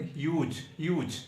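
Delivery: ह्यूज said with an h glide, not यूज; careful pronunciation. Shown as a demonstration. Teacher correcting students' ह्यूज, said carefully. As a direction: say ह्यूज twice, clearly starting with the h sound. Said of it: "इसे ही यूज नहीं पढ़ेंगे".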